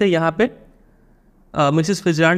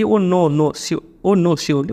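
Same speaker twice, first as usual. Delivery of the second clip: nervous protest; much slower than usual. A narrator's reading. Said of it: "protesting nervously".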